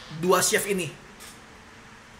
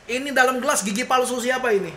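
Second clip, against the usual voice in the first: loud raised-pitch indignant shout; angry king outburst; 6 semitones higher, 4 dB louder than usual. Retold or imitated. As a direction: explode like a furious king. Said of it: "Marah dia, meledak gitu".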